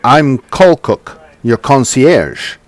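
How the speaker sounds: lightly voiced polite concierge; tiefling voice. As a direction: offer help like a courteous hotel host. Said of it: "the tiefling says".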